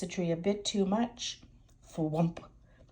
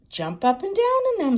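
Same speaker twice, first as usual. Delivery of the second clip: excited shout; 13 semitones higher, 8 dB louder than usual. Acted. Daddy Pig voiced loudly.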